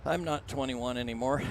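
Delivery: catching breath while talking; heavy breathing. Real, not acted. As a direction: still out of breath. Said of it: "Sorry if I'm breathing hard".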